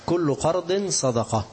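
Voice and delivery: كل قرض صدقة drawn out slowly with weight on قرض; slow solemn recital, قرض stressed; slow emphatic recitation. Shown as a demonstration. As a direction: lean on قرض and let the phrase fall slowly. Repeating the hadith for emphasis.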